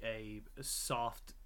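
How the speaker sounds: slow whisper, dry irony; whispered understatement. Real, not acted. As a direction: whisper it with a wink. Ironic understatement about Kratos.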